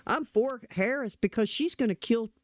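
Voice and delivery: lightly put-on voice of a pop star's sudden conversion; mock celebrity endorsement. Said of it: "It wasn't like she was at the house".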